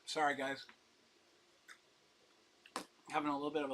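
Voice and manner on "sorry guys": talking while chewing; mouth full. Real, not acted. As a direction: speak around a mouthful of food. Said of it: "I'm chewing".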